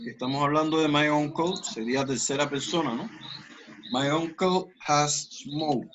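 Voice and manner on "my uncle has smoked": slow, careful teacher model; slow model sentence. Shown as a demonstration. Teacher modelling the sentence slowly. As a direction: spell it out slowly for the class. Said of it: "es un verbo ir-, eh, regular".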